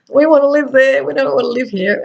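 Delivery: high, loud, keen British voice wanting out; mock the Brits longing for Australia; eager British voice. British locals longing to migrate, a hint of an eager British accent. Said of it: "fifty percent of the population wanted to migrate".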